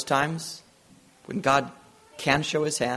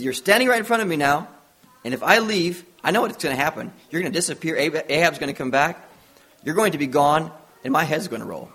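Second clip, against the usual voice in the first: panic-stricken; 3 semitones higher, 3 dB louder, faster than usual. Retold or imitated. Servant fears Ahab will kill him, mildly panicked. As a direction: imitate a rattled servant protesting. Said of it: "he was totally panic-stricken".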